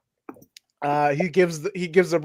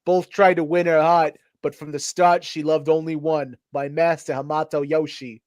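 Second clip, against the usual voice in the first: put-on New York accent. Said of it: "I'll do a New York accent then".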